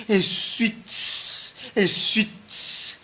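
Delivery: breathy whispered repeat; whispered mocking echo. Real, not acted. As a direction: whisper the word twice. Whispered repetition.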